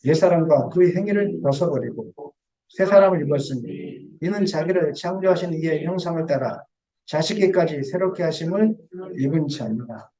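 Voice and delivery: measured Bible reading; scripture reading. Acted. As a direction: read the verse out solemnly. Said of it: "골로새서 한번 읽어보겠습니다".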